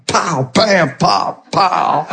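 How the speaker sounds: short spoken punch noises; imitated punches. Preacher acting out the devil picking on someone, punch sounds. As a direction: pop out each mock blow.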